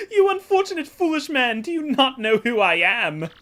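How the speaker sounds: hammed-up Italian-style merchant, grand and theatrical; hammy Flavio accent. Voicing Flavio introducing himself to Mario, hammy Italian-style accent. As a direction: ham up a boastful rich trader with a put-on Italian lilt. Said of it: "need a voice".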